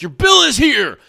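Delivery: high, loud alert about a bill; mock wake-up call. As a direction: call it out to jolt someone, hammed-up. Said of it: "Hello, wake up, don't forget".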